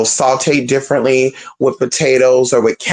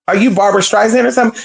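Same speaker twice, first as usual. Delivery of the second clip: sassy retort; 6 semitones higher, faster than usual. Retold or imitated. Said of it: "she was giving Barbra Streisand".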